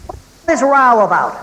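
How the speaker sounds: loud, slow bark of a rough boss; bellowing overseer. Retold or imitated. Overseer storming into the factory, a loud slow bellow. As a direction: bellow it across the room, slowly. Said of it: "with a voice ... like rasps and files, bellowed out".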